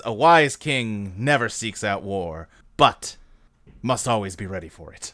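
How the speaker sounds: a hint of a solemn old king; low slow Odin. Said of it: "that's not what he says".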